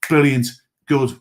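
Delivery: a loud, bright "Brilliant" as self-encouragement; upbeat cheer. Retold or imitated. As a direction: cheer yourself on in one loud word. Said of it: "I want you to start going".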